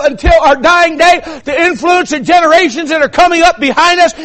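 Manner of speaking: urgent, climbing pulpit exhortation; fervent preaching. Real, not acted. Preaches at full force.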